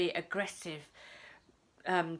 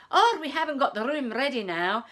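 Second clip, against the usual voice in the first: louder, imitated Scottish accent; 3 semitones higher, 6 dB louder than usual. B and B owner turning guests away, aggressive Scottish accent. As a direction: imitate a brusque Scotsman on the phone. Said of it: "in a Scottish accent".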